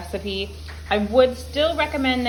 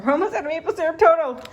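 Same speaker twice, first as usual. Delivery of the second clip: laughing; 9 semitones higher, 3 dB louder, faster than usual. Real, not acted. Laughing at own syrup obsession.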